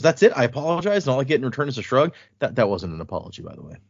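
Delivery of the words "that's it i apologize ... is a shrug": indignant disbelief. Retold or imitated. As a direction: play it as outraged at a shrug. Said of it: "she goes".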